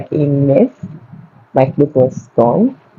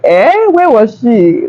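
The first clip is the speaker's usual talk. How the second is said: mother's voice; 6 semitones higher, much slower than usual. Retold or imitated. Her mother voiced in the story.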